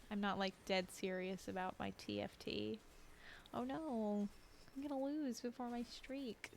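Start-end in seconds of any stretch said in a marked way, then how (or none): 4.8-6.5 talking through a yawn. Real, not acted. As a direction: say it mid yawn. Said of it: "Could you hear me yawning".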